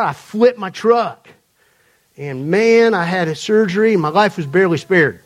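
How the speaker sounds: imitated Atlanta man telling his testimony; attempted Atlanta accent. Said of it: "he's telling the story in his accent".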